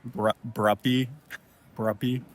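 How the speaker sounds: Bruppy said coaxing, rising at the end; calling the cats. Shown as a demonstration. Showing how he calls the cats, coaxing rise. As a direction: call Bruppy to a cat. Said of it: "I find myself calling the cats".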